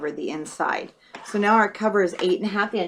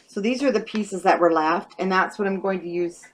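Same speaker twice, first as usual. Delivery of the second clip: talking through hiccups; speaking with the hiccups. Real, not acted. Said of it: "I have the hiccups now".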